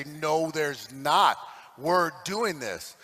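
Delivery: low, slow, determined reply; quiet resolve. Acted. Professionals answering the doubters, quietly resolute. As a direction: drop it low and draw it out, immovable.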